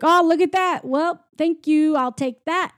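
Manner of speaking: high, sing-song smugness; mock-smug sheriff. Retelling the sheriff taking a kid's birthday coin, smug. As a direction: gloat lightly while helping yourself.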